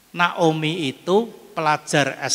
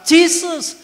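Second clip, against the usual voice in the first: high, louder repeated calls of Jesus; mock panicked cries, much higher; old woman crying out; 11 semitones higher, 3 dB louder, much slower than usual. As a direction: imitate a frantic grandma calling on Jesus. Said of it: "Dia teriak-teriak di pesawat".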